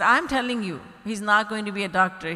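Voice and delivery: loud, fast insistence in a quarrel. Retold or imitated. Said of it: "their voices were rising".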